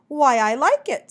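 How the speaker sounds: gracious approval. A narrator's reading. Mockingbird gives the bat his verdict, loud and effusive. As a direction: pronounce approval grandly, stretching it. Mockingbird grandly praises the poem.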